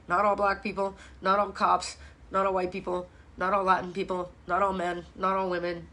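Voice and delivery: low, monotone list of mocked excuses; dismissively imitating stock excuses; dismissive quoted excuses. Rattling off excuses they reject.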